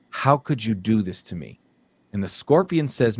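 animated fable narration with lightly acted dialogue; storyteller lightly playing both animals; storytelling. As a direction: tell an old fable, lilting through each exchange.

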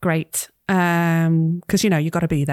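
put-on light Scouse accent as Sam, teasing her mum; gentle Liverpool nagging, accent held lightly. Sam chides her mum about the heating, light Scouse. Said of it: "I've forced you to do a Scouse accent".

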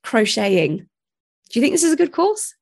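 hoarse, croaky voice. Real, not acted. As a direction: speak through a croaky throat. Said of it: "I'm sorry about my croaky voice".

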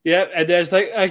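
usual speaking voice

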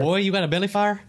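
high, twangy Southern yokel; mock Southern drawl. Teasing his co-host about belly fire, mock Southern. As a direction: ham up a backwoods Southerner. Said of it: "I switched accents".

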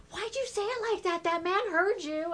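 put-on high, slowed, embarrassed teen scolding; embarrassed daughter. Daughter embarrassed by mom in the store. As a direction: hiss it like a mortified teen. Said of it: "she'll be like".

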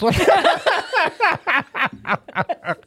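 laughter breaking out high; big embarrassed laugh; high burst of laughter. Real, not acted. Laughing at own failure.

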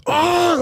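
high, drawn-out "aah" of rage; mock rage yell. Kid hit from every angle, mock rage scream. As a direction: let out an imitated yell of fury. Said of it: "like, rage mode".

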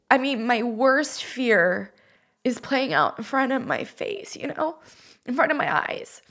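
holding back tears while recalling the fall; choked up. Real, not acted. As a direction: voice catching, fighting back tears, mostly soft. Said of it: "Sorry, let me pull myself together".

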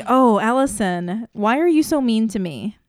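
mock hurt. Teasing a co-host as if talking to Allison, mock hurt. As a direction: playfully protest being picked on.

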